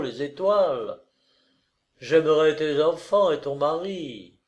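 lightly voiced earnest suitor; ardent consoling lover. Lover consoling weeping woman with promises, ardent.

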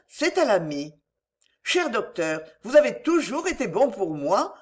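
lightly voiced anguished young woman, pitched a little up; understated distress, confiding and insistent; pleading young heroine. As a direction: plead earnestly with an old friend.

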